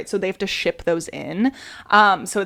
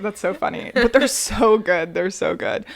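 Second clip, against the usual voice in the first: ordinary talk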